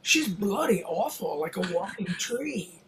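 put-on slow, drawn-out Australian accent; retold quip in an Australian accent. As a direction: lightly imitate an Australian, taking it slowly. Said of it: "in that Australian accent, he said".

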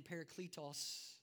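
parakletos said with a put-on Greek pronunciation; Greek accent. Shown as a demonstration. Preacher shows off the Greek word parakletos, mock-scholarly accent. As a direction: give parakletos a mock-learned Greek sound. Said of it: "I say it with an accent".

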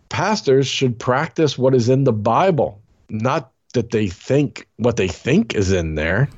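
halting read with odd pauses. Real, not acted. Reading the bishop's quote aloud with odd pauses. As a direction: stumble through with strange gaps. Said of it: "What's up with the pauses".

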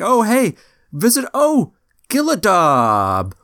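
high, excited shopkeeper squeak; high greeting. Acted. Shopkeeper greets the gnome, high and excited. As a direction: pop out and greet them high.

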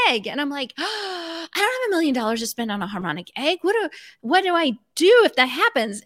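high, rushed, imitating her own past panic; hammed-up alarm about a million-dollar egg; mock panic. Telling her coach what she feared, in mock panic.

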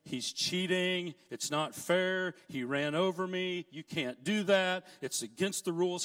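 half-hearted imitation of a yelling boy; retold yelling. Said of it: "I can still see him yelling".

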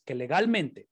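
legalmente given weight with a falling tune; stress on legalmente. Real, not acted. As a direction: lean on the word legalmente. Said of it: "Estoy enfatizando la palabra legal".

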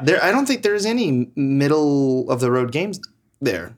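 hiccuping mid-sentence; talking through hiccups. Real, not acted. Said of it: "Sorry, I have hiccups".

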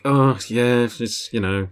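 weary, offhand shrug of a line; mock-casual aside; eye-rolling nonchalance. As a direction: let it trail off dismissively. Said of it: "With, like, eye rolls, with kind of like".

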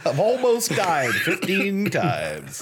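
slow, laughing through the words. Real, not acted. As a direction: still giggling as you say it. Joking after laughing fit.

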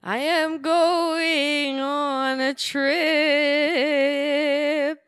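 high, slow Bosnian singsong in English; Bosnian accent. Shown as a demonstration. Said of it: "do the Bosnian song in English words".

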